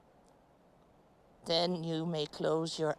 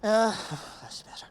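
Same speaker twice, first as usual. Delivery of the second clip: whispered relief; 6 semitones higher, 6 dB louder than usual. Real, not acted. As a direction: breathe it out, eased. Relief after neck pain.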